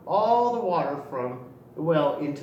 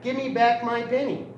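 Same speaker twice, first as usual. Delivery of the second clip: louder, higher, insistent demand; demanding cry; 5 semitones higher, 4 dB louder than usual. Acted. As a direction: demand the penny back like a stubborn rooster. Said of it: "he cried".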